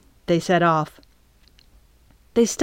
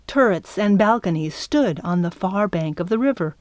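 ordinary delivery

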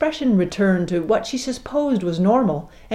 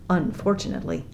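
ordinary delivery, nothing marked

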